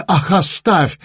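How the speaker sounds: cross little witch brushing him off; a hint of a stubborn child's outburst; exasperated cry. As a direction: wave him away with a cry. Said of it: "крикнула маленькая баба Яга".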